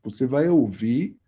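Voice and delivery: a hint of a wise old musician speaking in metaphors; imitating Laércio's intonation. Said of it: "Ele falou assim, desse jeito, assim, com essa entonação".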